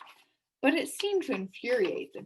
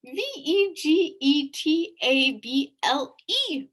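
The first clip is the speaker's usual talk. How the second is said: spelled out; 6 semitones higher, 8 dB louder, slower than usual. Shown as a demonstration. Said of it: "It's a tongue twister to spell this fast".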